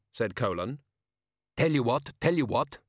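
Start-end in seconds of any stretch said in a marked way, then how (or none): 1.6-2.8 slightly higher, hurried placating. A narrator's reading. Guard hastily offering Betty a plan, hurried. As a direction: placate in a hurry. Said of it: "said the guard hurriedly".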